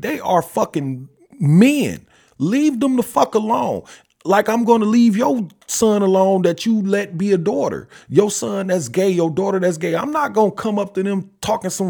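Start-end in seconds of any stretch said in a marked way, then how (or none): 0.0-10.0 rising, louder, higher protest; heated outburst. Real, not acted. Father defending his sons, heated and loud.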